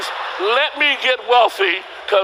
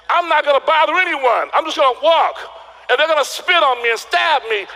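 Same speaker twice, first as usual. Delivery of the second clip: quoting King; 5 semitones higher than usual. Retold or imitated. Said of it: "He said".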